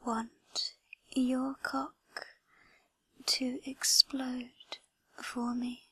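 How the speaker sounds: intimate breathy ASMR whisper. Acted. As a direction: whisper close to the mic, teasing.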